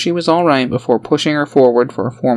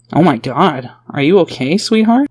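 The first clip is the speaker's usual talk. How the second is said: rising higher to sweetheart, louder; urgent worry; 4 semitones higher, 3 dB louder than usual. Acted. A father checks his daughter after an attack, urgent. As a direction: rush to check on her. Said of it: "Randy asked Dawn urgently".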